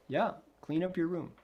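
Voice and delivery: a hint of a parent standing firm. Parent answering the protesting child, lightly acted firmness. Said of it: "be like the grown-up".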